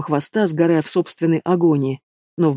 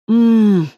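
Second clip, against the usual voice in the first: a high, loud moan forced out by agony; pained moan; 5 semitones higher, 5 dB louder than usual. A narrator's reading. Wounded woman moaning as the monster bites her leg. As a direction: let the pain tear a groan out of you. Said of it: "вырвалось мучительно у меня".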